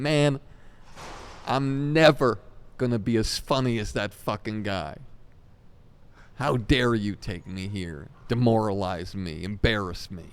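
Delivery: mock furious complaint to his manager; retold angry rant. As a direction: vent like a hurt young comic. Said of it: "the only time he ever got mad at me".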